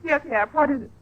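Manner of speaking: high, teary and hurried; wife still crying, answering the maid; tearful impatience. Acted. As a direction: brush the maid off through tears.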